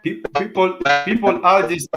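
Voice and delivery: glitchy robot-like connection; breaking up like a bad call; robotic bad audio. Real, not acted. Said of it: "it sounds like a robot".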